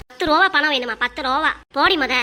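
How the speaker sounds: sneering, loud dismissal; mother-in-law mocking her daughter-in-law's demand for money, scornful; scornful mockery.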